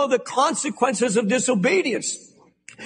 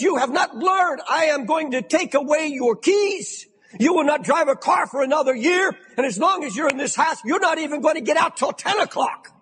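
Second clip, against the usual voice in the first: stern scolding; 3 semitones higher than usual. Retold or imitated. Father scolds son after crash.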